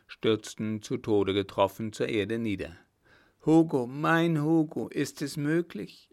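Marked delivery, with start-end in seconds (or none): 3.4-6.1 high, loud, overjoyed cry; jubilant cry. Acted. Margot recognises her rescuer, high jubilant cry. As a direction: burst out with joy at hearing him. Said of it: "jubelte Margot auf".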